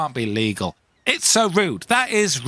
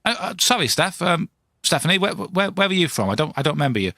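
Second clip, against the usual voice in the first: confused stammering; 5 semitones higher than usual. Acted. Bewildered answering a cold caller.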